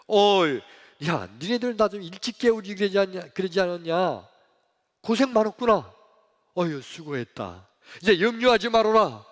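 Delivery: loud, hearty well-done; praising and encouraging. Acted. Jesus to worn-out disciples after the storm, loudly encouraging. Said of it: "제자들을 칭찬하고 격려해야".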